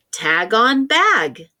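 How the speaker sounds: slow, each word stretched out; slow stretched phrase. Shown as a demonstration. Teacher reading the phrase slowly for young writers. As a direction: stretch the words so kids can hear each sound. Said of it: "Listen to the phrase".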